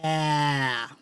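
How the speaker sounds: open-mouthed "A" as in apple; short a as in apple. Shown as a demonstration. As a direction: hold the "A" like the start of apple. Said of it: "Say "a" like apple".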